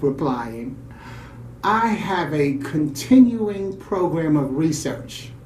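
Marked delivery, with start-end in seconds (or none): 1.6-5.3 slow, unflustered, matter-of-fact; cool and composed. Retold or imitated. Mother answering the clerk's question, coolly composed. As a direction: state it without a trace of fluster. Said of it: "Well, coolly".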